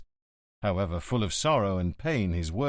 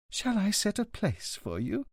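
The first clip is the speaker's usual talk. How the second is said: a touch softer and slower, kindly hostess; softly hospitable signora; pleasant offer; 10 semitones higher, 3 dB quieter than usual. Acted. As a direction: offer the seat gently and politely. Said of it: "the signora asked pleasantly".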